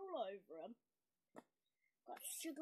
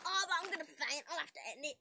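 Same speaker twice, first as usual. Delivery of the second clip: dramatic; 9 dB louder, faster than usual. Real, not acted. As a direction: ham up the feeling faint. Feeling sick, exaggerated.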